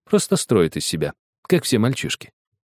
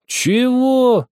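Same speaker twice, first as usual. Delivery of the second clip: angry challenge; 5 dB louder than usual. Acted. Boy bristling at insult.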